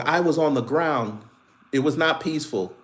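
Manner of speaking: stressing WAS and NOT firmly; "was" stressed firmly; corrected version. Shown as a demonstration. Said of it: "Try again".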